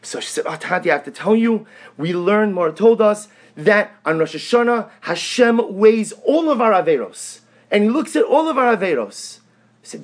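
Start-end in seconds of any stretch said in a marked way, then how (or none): 0.5-9.4 higher, louder imitation of an excited child; eager young daughter. Youngest daughter telling Tati what she learned, eager child imitation. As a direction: imitate a child proudly reciting a lesson.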